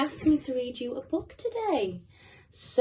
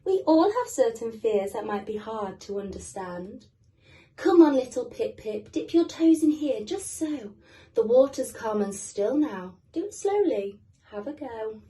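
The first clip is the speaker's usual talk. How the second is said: mummy penguin; 4 dB louder than usual. Acted. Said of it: "said his mummy".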